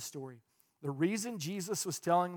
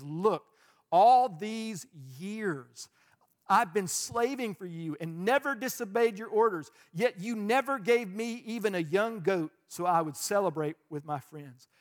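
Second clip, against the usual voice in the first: resentful elder brother; 2 semitones higher, 4 dB louder than usual. Retold or imitated. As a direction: sulk against the father.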